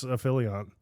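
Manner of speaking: AFFILIANT with an F and a YONT ending; own pronunciation. Shown as a demonstration. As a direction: insist on "Affiliant" as uh-FILL-ee-ont. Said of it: "That's exactly how you pronounce it".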